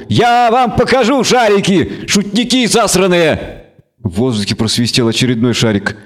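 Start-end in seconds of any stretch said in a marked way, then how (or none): 0.1-3.6 angry goat creature. Acted. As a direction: rant and bleat like a furious goat. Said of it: "кричал козёл".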